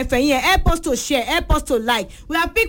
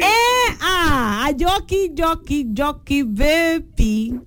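excited greeting; 3 semitones higher, much slower than usual. Real, not acted. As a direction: sing out the caller's name with delight. Host gleefully greets caller by name.

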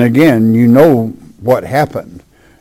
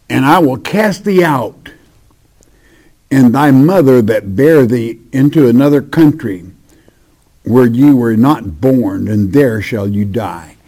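measured, solemn Bible reading; sermon scripture voice; 3 dB louder than usual. Acted. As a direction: read it like holy writ, a bit louder.

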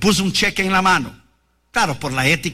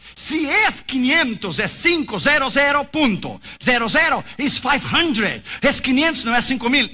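exasperated father; 4 semitones higher than usual. Retold or imitated. Father correcting his son for the last time, in a higher exasperated near-shout. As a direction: lose patience spelling out the number.

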